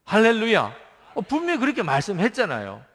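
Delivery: loud, high joyful hallelujah; exclaimed hallelujah. Real, not acted. Preacher shouting hallelujah to the congregation, loud and high. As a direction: burst out in praise.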